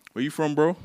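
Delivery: stranger's challenge voiced inside the poem; street challenge. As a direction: throw it out like a guy sizing you up.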